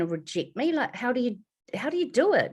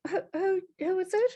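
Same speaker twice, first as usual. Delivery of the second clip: startled mother; 11 semitones higher than usual. Retold or imitated. Mother asking on phone.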